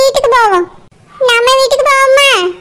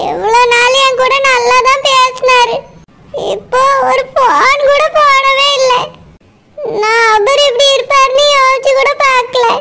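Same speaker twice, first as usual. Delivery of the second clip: tearful. Acted. Wife weeps over absent husband.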